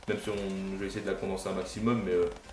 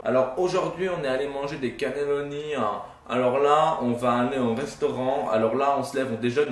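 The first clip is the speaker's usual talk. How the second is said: lightly parodied cheesy travel vlogger; mock vlogger voice; 2 semitones higher than usual. Youtuber mocking travel vlogs in a slightly put-on vlogger voice. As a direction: sell it like a lightly mocked daily vlog host. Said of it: "ce sera pas un vlog".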